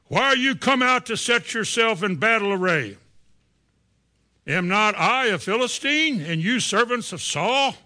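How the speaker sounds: a hint of a boastful giant calling out; lightly voiced giant daring Israel; Goliath's challenge.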